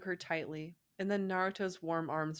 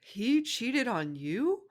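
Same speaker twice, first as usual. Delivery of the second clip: gasped; 6 semitones higher, 6 dB louder, much slower than usual. Acted. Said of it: "Naruto gasped".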